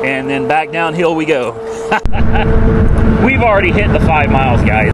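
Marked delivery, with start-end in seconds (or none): 1.6-3.2 loud laugh. Real, not acted. Laughing while riding downhill.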